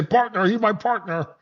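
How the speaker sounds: high, soft mocking frog-puppet voice; mock them like a squeaky puppet frog; host mocking women as Kermit the Frog. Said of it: "They sound like Kermit the Frog".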